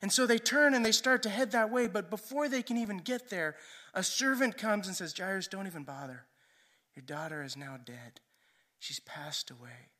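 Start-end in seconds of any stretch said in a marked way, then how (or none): 5.2-9.9 hushed, low and sombre; grave news. Retold or imitated. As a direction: break the death news softly. Servant breaks news of a death.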